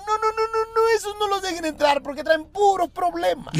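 alarmed shout. Acted. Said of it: "Y dijeron".

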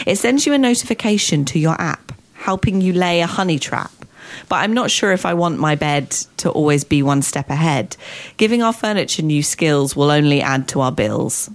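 measured, rhyming comic poem reading; light verse read aloud; poem recital. Acted. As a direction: recite it line by line, landing each rhyme. Reads own comic poem aloud.

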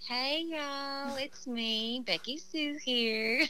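put-on chirpy Southern accent, a ditzy persona; Becky Sue Southern accent. Podcast guest introduces her comic character, Southern accent. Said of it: "So she says things like".

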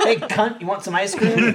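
high laughing teasing call. Retold or imitated. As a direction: tease fondly through laughter. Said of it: "I'm like".

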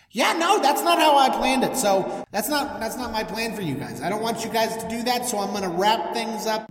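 lightly voiced God, a bit excitable; chummy God. God telling Moses the plan has changed, lightly excitable. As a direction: play a breezy boss with a plan.

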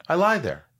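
giggling through the words; amused retelling; laughing quote. Retold or imitated. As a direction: laugh it out sheepishly. Laughing while quoting self.

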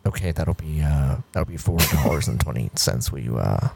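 low bored cashier voice; drive-thru worker on the speaker. Acted. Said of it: "we'll role play".

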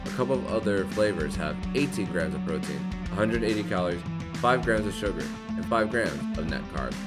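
upbeat sponsor read over music; hard sell ad. Acted. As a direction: sell it like a radio ad. Host reads sponsor ad.

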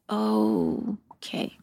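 drawn-out whispered okay; sheepish acceptance. Retold or imitated. Woman taking in how early it is, sheepish. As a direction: let it sink into a low whisper.

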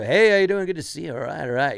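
mock loud, fast open-mic comic patter; hitting the audience over the head; loud fast newbie comic. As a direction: ham it up like a nervous beginner comic. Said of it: "they're talking really loud and really fast".

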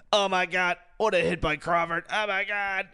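strained, high play-by-play voice; hammed-up hockey call that hurts the throat. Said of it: "he was just play-by-playing".

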